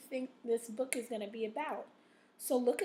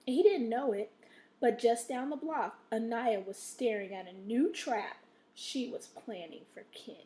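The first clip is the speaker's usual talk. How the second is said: expressive story reading, punchy start then hushed final name; interesting read-aloud; 3 dB louder than usual. Shown as a demonstration. Teacher showing students how to read, suspenseful storytelling. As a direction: build intrigue, dropping away at the end. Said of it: "notice how I made that interesting".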